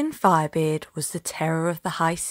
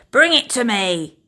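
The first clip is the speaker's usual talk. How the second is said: a louder captain's command; shouted order; 3 semitones higher, 5 dB louder than usual. Acted. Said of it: "Captain Firebeard shouted".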